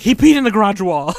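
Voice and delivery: put-on high, loud, panicky girlfriend voice; a hammed-up hysterical wife; imitating hysterical Trisha. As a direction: mimic her frantic outrage. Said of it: "the way she said it".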